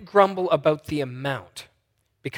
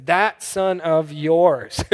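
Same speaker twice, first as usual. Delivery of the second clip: slow, bitter stress on "That son of yours"; a brother spitting out "That son of yours" to his father; resentful sneer; 5 dB louder, much slower than usual. Retold or imitated. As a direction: drag out "That son of yours" with contempt. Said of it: "And he says it like this".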